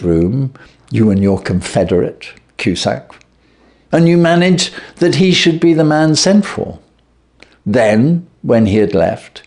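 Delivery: lightly voiced detective. Detective accusing the thief of the robbery, lightly voiced and measured. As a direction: lay out the crime coolly, piece by piece. Holmes confronts thief at length.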